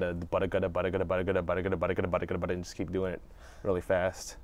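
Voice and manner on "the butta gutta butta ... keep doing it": 「butta gutta」を速く繰り返す早口練習; articulation drill. Shown as a demonstration. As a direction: repeat butta gutta crisply, faster and faster. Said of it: "a go-to one for me is the butta gutta".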